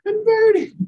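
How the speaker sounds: high, cried-out single word; preacher's fervent cry. Real, not acted. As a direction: cry it out like a revelation. Preaching climax.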